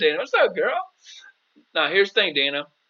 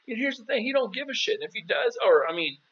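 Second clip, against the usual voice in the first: a much higher, insistent voice for his own advice to the client; emphatic retold advice; 5 semitones higher, faster than usual. Coach replays telling a client not to text her ex, high and insistent. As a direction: press the point hard, almost pleading. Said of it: "I was like".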